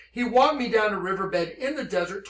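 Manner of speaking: ordinary talk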